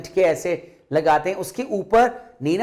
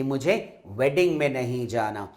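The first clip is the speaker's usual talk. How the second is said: put-on softer, low tearful child; a touch of tearful; 5 semitones lower, 4 dB quieter than usual. Little girl tells her mother, softly and tearfully. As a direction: say it quietly, as if about to cry. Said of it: "रोते-रोते क्या बोली".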